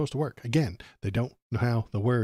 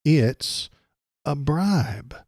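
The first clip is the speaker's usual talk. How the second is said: shouting; 6 dB louder than usual. Real, not acted. Host yelling his answer over the senator, shouting. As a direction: hammer the answer home, yelling.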